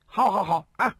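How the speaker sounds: high indignant shout. A narrator's reading. Second brother yells back at the insulting elder brother, high indignant shout. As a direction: yell it, stung and offended. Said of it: "大叫地说道".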